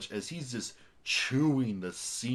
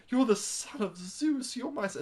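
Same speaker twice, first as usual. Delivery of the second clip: mimicking the mom; 13 semitones higher than usual. Reviewer mimics Hercules' mother, high mock voice. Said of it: "She's like".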